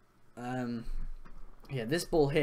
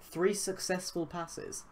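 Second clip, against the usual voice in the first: puzzled double take, voice lifting; wait, did I read that right?; surprised; 5 semitones higher, 3 dB quieter, slower than usual. Real, not acted. Double-takes at the stat.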